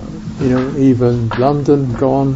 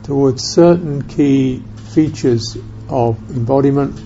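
unhurried meditation guidance with long silences; calm, spacious guiding, leaving room after each phrase; guided meditation; 3 semitones lower, 7 dB quieter than usual. Real, not acted. Teacher guiding listeners to experience presence in the body, guided meditation.

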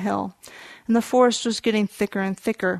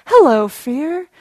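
slow, raised, projected call; louder; 5 semitones higher, 9 dB louder, slower than usual. Retold or imitated. Son repeats it louder for his father, projected. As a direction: belt it out slowly and higher. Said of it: "say it a little louder".

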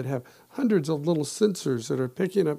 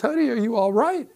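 worried wife; 7 semitones higher, 6 dB louder than usual. Retold or imitated. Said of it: "she comes running out the door".

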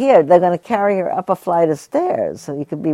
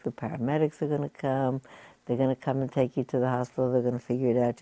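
softer, calm voice telling her help is coming; low soothing tone; 7 dB quieter, faster than usual. Retold or imitated. Bystanders comforting an injured woman, softly and calmly. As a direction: gently reassure someone who is hurt. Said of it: "speaking in a nice, low tone of voice".

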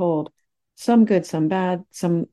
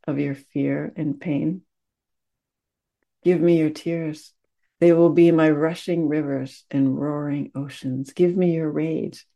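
poem reading. Acted. Teacher to students, reading a poem, unhurried and tender. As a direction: lay each line down like a gift.

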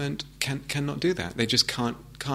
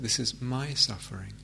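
tender personal acknowledgment; 5 dB quieter than usual. Shown as a demonstration. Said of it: "more personalize it".

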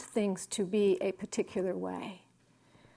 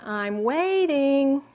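impatient Calvin; 4 semitones higher, 6 dB louder, much slower than usual. Retold or imitated. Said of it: "And then he stands there".

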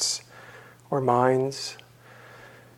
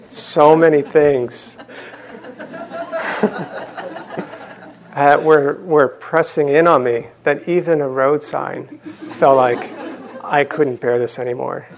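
laughing. Real, not acted. Laughing at own frustration.

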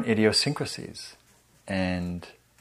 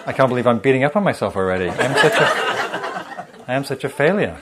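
mock self-berating; 2 semitones higher, 4 dB louder, faster than usual. Teacher voicing her own morning self-criticism, mock spiral.

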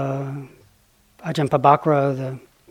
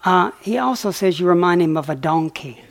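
laughing; 3 semitones higher than usual. Retold or imitated.

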